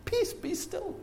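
high, soft, drawn-out calming call; hushed command. Acted. Preacher rebuking the wind and waves, hushed command.

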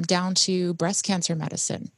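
usual speaking voice

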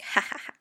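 breathy, voiceless ha-ha-ha; acted airy laugh of excitement; mock excited laugh. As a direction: pant out a pretend laugh. Acts out her pumped-up reaction.

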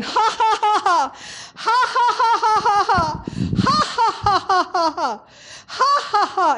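high, hearty put-on laughing bursts; retold mocking ha-ha, pitched high; imitated forced laugh. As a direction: act out defiant laughter, each burst falling. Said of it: "he just started in again".

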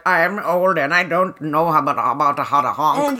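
lightly mock a sad, fumbling boy; hint of a pathetic sad boy. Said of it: "like, a sad boy grope".

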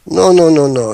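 badly faked Dutch accent on an emphatic refusal; terrible Dutch accent. Breeder waving off the seller's offer, in a terrible Dutch accent. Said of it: "in my terrible Dutch accent".

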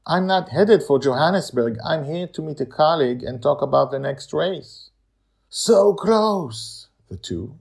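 a touch of wistful longing; lightly voiced friends. Madeline and Amali dialogue.

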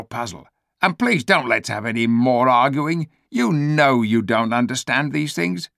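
sly ape brushing off the omen; smooth-talking ape. Acted. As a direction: talk him round before he thinks. Ape quickly talking him round.

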